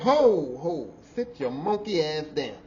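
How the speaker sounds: sharp retold command to sit down; retold yell. Boss to sweating worker, a mild retold yell. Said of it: "That was the first time I really yelled at him".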